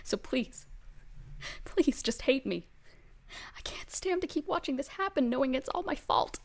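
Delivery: grieving father figure, pleading and breaking; tearful Marcel. Acted. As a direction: beg him through tears, whispering in places. GM voices Marcel crying.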